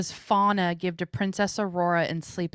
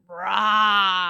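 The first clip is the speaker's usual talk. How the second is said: imitated roar; 5 dB louder than usual. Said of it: "He's like".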